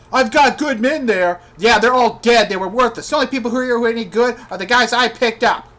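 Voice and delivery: heated, incredulous complaining; angry rant. Real, not acted. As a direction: rant indignantly about what went wrong. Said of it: "Damn it, I'm mad".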